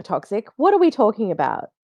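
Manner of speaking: a hint of the tipster host; tipster impression. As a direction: lightly imitate the tipster host. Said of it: "my tipster impression here".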